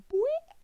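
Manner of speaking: cartoon "Boing" shot way up high; a springy high-pitched "Boing"; boing sound effect. Cereal hitting the bowl.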